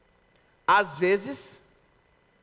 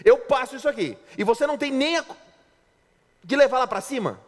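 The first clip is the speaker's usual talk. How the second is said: nagging wife; 5 semitones higher than usual. Retold or imitated. Pastor imitates a wife scolding her husband, higher nagging voice. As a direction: nag him like an irritated wife. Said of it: "já chega falando assim... Pilhando".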